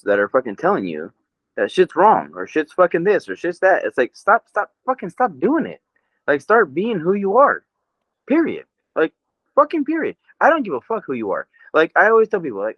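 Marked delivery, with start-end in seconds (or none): 3.8-11.5 heated rant. Real, not acted. Ranting, voice climbing higher.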